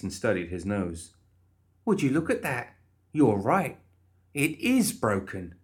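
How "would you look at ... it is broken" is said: cheery Molly voice. Acted. Molly examining nose.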